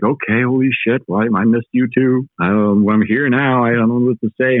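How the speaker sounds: breathless awe, slowing on I'm here now; overwhelmed reply. Retold or imitated. To the forest that spoke to him, awestruck and high.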